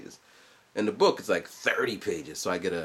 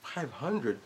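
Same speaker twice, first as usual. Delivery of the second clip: offhand; 3 semitones higher, 7 dB quieter than usual. Retold or imitated. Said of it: "but she's just like".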